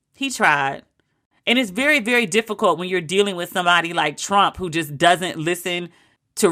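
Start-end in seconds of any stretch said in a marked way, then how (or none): 0.1-0.8 low, sighing second take; He tried. low and settled; low resigned. Shown as a demonstration.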